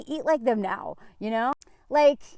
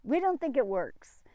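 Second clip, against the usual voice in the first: lazy dismissal. Retold or imitated. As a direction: wave it away half-whispering. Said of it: "they're like".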